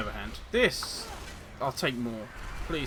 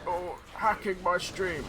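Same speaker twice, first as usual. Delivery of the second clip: ninja impression; 4 semitones higher, slower than usual. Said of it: "the customary ninja impression".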